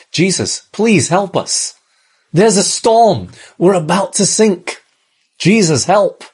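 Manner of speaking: high, gentle pleading; a frightened but trusting request; humble plea. Acted. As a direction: ask for help without blaming. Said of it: "could have actually been said a different way".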